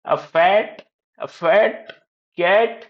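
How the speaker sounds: slow, separated words; teacher reading word by word. Shown as a demonstration. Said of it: "read out करना है".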